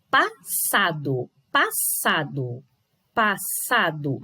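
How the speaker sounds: "passado" slowly broken, pa-SA-do; stress on SA. Shown as a demonstration. Teacher showing pupils the tonic syllable, stressed SA. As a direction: separate "passado" slowly, leaning on SA. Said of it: "o sa aparece mais forte".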